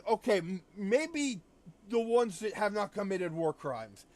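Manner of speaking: mock panicking Russia. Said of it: "Russia starts panicking more".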